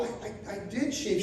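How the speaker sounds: mock-sheepish little protest; timid protest. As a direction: stammer it out meekly, caught off guard. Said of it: "I go".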